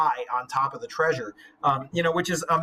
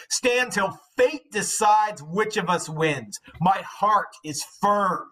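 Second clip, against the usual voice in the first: put-on old hero's boast; 4 semitones higher, slower than usual. Beowulf boasting to his followers before the dragon, proud and slow. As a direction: boast like an aging warrior. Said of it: "then he said farewell to his followers".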